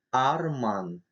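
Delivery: Арман with a hard, back A; hard A sound. Shown as a demonstration. Teacher showing the hard letter А, Арман with back A. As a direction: say Арман with the tongue drawn back on the А. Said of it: "Твёрдый звук".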